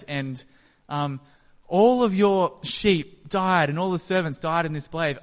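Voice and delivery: high, loud, breathless calling of the name; panicked messenger blurting the disaster; frantic servant. Retold or imitated. Servant racing up to tell Job of the raid, frantic high shout. Second servant running up, bad news.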